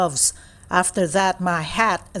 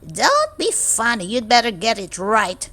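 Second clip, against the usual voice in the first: stern teacher; 2 semitones higher than usual. Acted. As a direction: warn the cheeky pupil sternly. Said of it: "She says".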